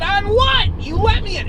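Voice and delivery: very high, loud incredulous protest; yelling back. Retold or imitated. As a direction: shriek it back in disbelief. Retold yelling back at threat.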